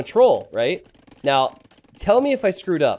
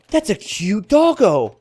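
mock cute voice; 6 semitones higher, 4 dB louder, slower than usual. Mocking his sweet reaction.

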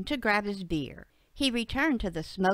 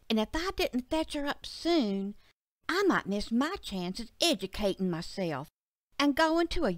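lightly voiced earnest child; little girl Betsy; 2 semitones higher than usual. Betsy recounts her dream to her dad, lightly girlish. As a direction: tell a dream like a young girl.

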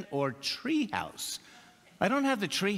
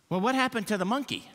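laughing question; 6 semitones higher, much faster than usual. Retold or imitated. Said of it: "My grandchildren said".

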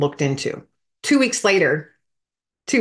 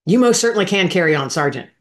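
retold yell; 3 semitones higher, 5 dB louder than usual. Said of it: "I was yelling at him".

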